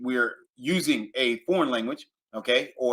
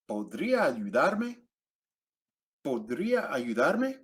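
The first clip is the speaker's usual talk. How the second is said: slow, clear teacher model of "¿Podría ayudarme?"; slow, careful rising "¿Podría ayudarme?"; slow model phrase; 4 dB quieter than usual. Shown as a demonstration. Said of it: "teacher model phrase".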